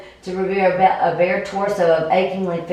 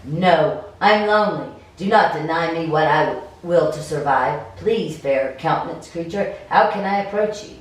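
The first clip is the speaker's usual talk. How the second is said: game master narration; 2 semitones lower than usual. Acted. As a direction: paint the scene, unhurried.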